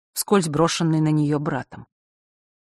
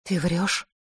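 calm; 4 dB quieter than usual. Acted. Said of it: "спокойно произнесла Василиса".

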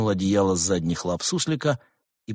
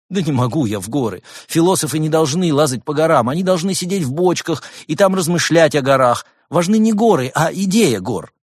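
higher, pleading little gopher; whiny gopher voice; 8 semitones higher, 8 dB louder than usual. A narrator's reading. Gopher begging the monk not to go to the mountains, higher and whiny. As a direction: wheedle like a scared rodent.

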